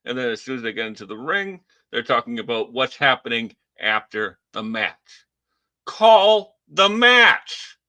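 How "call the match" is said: loud, slow, drawn-out shout of frustration; testy shout. Real, not acted. Fed-up fan yelling at the commentary team, angry shout. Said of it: "I guess I'm a little testy tonight".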